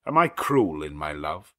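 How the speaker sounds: lightly voiced Rochester, gently asking; a hint of a brooding lover; Rochester's tender question. A narrator's reading. Rochester voiced in read novel.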